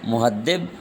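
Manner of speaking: مہذب with d in place of z; pronunciation option. Shown as a demonstration. Teacher reading vowel-mark choices, d sound in مہذب. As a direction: say مہذب with a hard d. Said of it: "مہذب کے درست اعراب کیا ہے؟".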